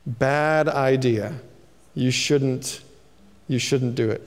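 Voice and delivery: a friend dampening your hopes; discouraging friend. Retold or imitated. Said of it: "they say".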